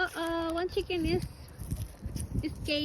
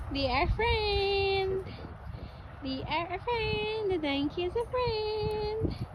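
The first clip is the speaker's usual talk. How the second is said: soft, slightly raised singsong, vowels drawn out; tender cooing; 3 semitones higher, 4 dB quieter, slower than usual. Real, not acted. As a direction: coo sweetly over the animals. Cooing about the donkey friends.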